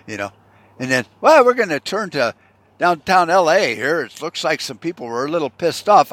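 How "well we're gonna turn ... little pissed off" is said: mock news anchor.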